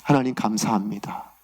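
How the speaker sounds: low, subdued thanksgiving; humble prayer after the struggle; retold prayer of thanks. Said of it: "하나님 앞에 기도하게 됐습니다".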